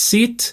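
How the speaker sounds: sit with a short lax "i" and relaxed lips. Shown as a demonstration. Teacher showing students a lax vowel, short sit. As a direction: say sit with loose lips, not stretched like seat.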